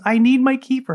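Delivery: put-on high pleading child voice; lightly voiced crying child; boy tells his mom he needs kefir, high and pleading; little boy begging.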